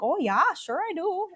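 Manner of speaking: put-on high, sing-song Minnesota accent; exaggerated Midwestern accent, pitched high; hammed-up Midwestern accent. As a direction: play the Upper Midwest accent up hard. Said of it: "playing in really hard on that accent".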